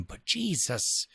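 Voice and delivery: breathy whispered exasperation; whispered aside. Real, not acted. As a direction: drop to a whisper in disbelief.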